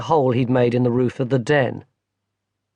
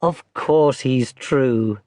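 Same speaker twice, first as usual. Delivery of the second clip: smiling grandmother; much slower than usual. Acted. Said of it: "his grandmother smiled".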